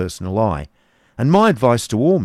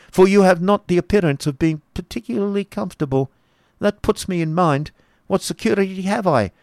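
high-pitched argumentative Baron; crying out; 10 semitones higher than usual. A narrator's reading. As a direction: argue it high, building to an outcry. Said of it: "he cried, starting up".

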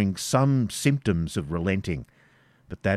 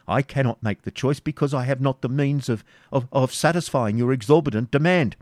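put-on lightly raised, pleading old moneylender; frightened Isaac; 5 semitones higher than usual. Isaac stammering his plea to the Baron. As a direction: plead nervously, stammering a little.

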